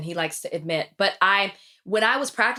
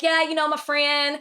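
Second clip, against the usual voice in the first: put-on Texas accent; 5 semitones higher than usual. Retelling a slip after visiting Texas, Texas accent. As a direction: let some Texas into it. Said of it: "you've been back in Texas".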